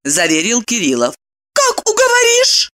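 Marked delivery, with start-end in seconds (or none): 1.5-2.7 high, guarded question; a touch of suspicion, much higher; wary. A narrator's reading. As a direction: ask warily. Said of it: "насторожилась она".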